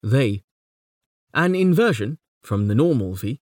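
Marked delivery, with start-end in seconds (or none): 0.0-0.4 the word "they" hit with a falling stress. Shown as a demonstration. Lecturer shows the stressed first syllable "they". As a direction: lean on "they". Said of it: "The stress on the first syllable".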